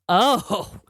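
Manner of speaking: imitating a dead-serious husband; mock-grave retelling of his warning. Wife quoting her husband's reaction to bingo story, dead serious. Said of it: "he was being dead serious".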